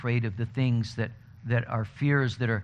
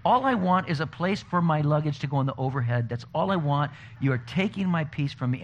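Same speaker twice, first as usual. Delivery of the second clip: exasperated rant; 3 semitones higher than usual. Retold or imitated. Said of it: "I'm going".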